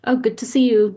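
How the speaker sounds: lightly acted hello before moving on; friendly passing greeting. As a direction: try out a quick, noncommittal greeting. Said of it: "next time where it's like".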